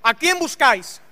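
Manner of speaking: desafío valiente, algo alzado. Retold or imitated. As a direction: interpela con valentía, imitando a Jesús. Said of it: "valiente, y dice". (pregunta firme y valiente)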